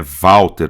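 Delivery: Walter said as vawter, W like a V; Walter, Brazilian way. Shown as a demonstration. Teacher showing students how Brazilians say it: Walter with a V. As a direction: say Walter with a V sound and open final e. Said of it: "a gente pronuncia Walter".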